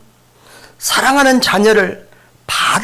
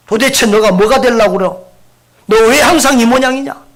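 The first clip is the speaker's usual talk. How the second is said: angry scolding; 3 semitones higher, 4 dB louder than usual. Shown as a demonstration. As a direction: snap at the kid in mock anger. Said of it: "이런 말들을 하면 안 돼". (아이를 꾸짖는 화난 말투)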